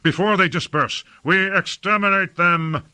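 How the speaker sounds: high-pitched, excited war order; excited commander urging the kill; high excitement. A narrator's reading. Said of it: "in high excitement".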